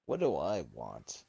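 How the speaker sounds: low, slow genie with weight on I; genie act, stress on I. Acted. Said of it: "act like a genie".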